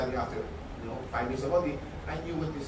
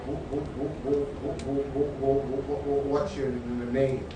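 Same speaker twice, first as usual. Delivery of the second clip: stuttering; slower than usual. Retold or imitated. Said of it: "I would go".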